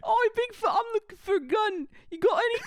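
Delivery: high, loud mock-British voice; Harry Potter. Harry asking Bigfoot for a gun, high mock-British voice. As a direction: call out as a hammed-up British wizard. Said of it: "Harry Potter".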